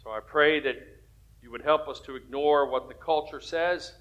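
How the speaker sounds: earnest pastoral prayer. Real, not acted. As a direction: pray sincerely over the church. Opening prayer before sermon.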